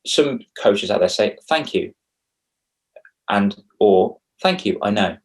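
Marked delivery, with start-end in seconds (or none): 1.5-1.9 brisk "Thank you." lifted higher and bright; a quick, slightly higher polite "Thank you."; clipped thanks. Shown as a demonstration. Coaching how to accept a compliment, curt thanks. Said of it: "Don't just say". 4.4-5.2 even, matter-of-fact "Thank you, I know." at usual pitch; flat self-assured "Thank you, I know."; smug thanks. Shown as a demonstration. Showing a compliment answer that sounds sticky, smug. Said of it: "That comes across as a bit sticky".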